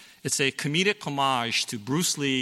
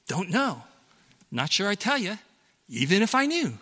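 scared father; 6 semitones higher than usual. Retold or imitated. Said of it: "understandably shaken and scared".

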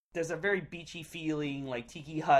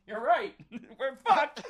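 higher, louder, laughing through it; retold alarmed realization; 10 semitones higher, 6 dB louder than usual. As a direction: act out dawning doom for laughs. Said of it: "And I was like".

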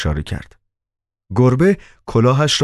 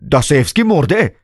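higher, a little unsure; a bit hesitant; 8 semitones higher than usual. Acted. Doorwoman tells Koroviev Dostoevsky is dead, a bit unsure. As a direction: say it, half doubting. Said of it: "با اندکی تردید گفت".

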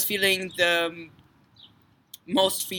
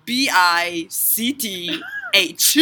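laughing; 6 semitones higher, 4 dB louder, much slower than usual. Real, not acted. Spelling while laughing.

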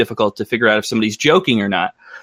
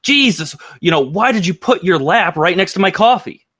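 much higher, sarcastic complaint; mock exasperation; 7 semitones higher than usual. To the person who spilled coffee, mock exasperated and high. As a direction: throw mock outrage at them. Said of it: "we'll also see over here".

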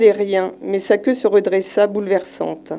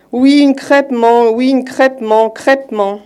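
exasperated shout; 3 semitones higher, 4 dB louder than usual. Acted. Crab snaps back at wife.

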